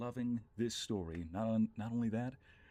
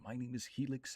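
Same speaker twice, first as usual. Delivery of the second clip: lightly put-on narrator introduction; measured narrator delivery; 2 semitones higher than usual. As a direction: introduce yourself as a storyteller would. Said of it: "do this in my narrator voice".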